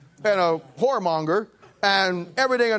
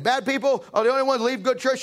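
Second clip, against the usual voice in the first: excited lady; 6 semitones higher than usual. Retold or imitated. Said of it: "She says".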